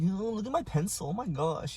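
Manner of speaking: mock-awed little kid voice; annoying kid. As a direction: imitate an annoying kid bragging. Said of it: "he was just really annoying".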